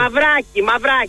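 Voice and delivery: Μαυράκη with an "ah" in the stressed middle syllable; supply the name Μαυράκη, said twice; "mav-RAH-kee", as a correction; corrected surname. Real, not acted. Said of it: "πώς το λέτε τον κύριο".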